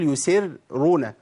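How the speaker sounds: يسرون slow, first r pulled thin after "si"; wrong light r. Shown as a demonstration. Teacher quoting many people's mistake, thin first r in يسرون. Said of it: "كتير من الناس بيقول".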